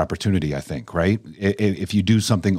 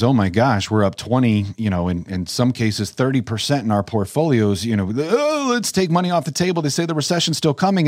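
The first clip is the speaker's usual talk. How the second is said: panicky investor voice; 3 semitones higher than usual. Retold or imitated.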